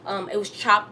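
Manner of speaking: talking around a retainer; slightly lisped retainer speech; wearing a retainer. Real, not acted. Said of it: "I have my retainers in, so I'm talking kinda funny".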